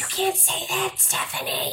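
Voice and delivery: put-on whiny tattletale kid; high-pitched tattling. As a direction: tattle on him in a high whine. Kid scolding a friend.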